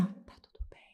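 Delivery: breathless voiceless whisper, barely there. Retold or imitated. To her husband, unable to breathe, a faint whisper. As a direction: mouth the words with no voice, like you cannot breathe. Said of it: "eu tentava sussurrar".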